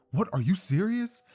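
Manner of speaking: high-pitched incredulous question; acted disbelief. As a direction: play mild shock at the news. Izuku's disbelieving reply to good news.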